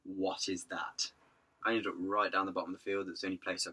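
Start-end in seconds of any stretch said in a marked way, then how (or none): 0.0-1.1 put-on snooty elderly couple. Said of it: "just the look of".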